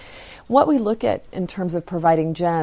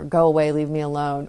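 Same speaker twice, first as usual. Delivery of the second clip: louder gruff dismissal; "Go away" said gruffly and louder, shooing the child off; 4 dB louder than usual. Retold or imitated. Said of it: "saying in a gruff tone of voice".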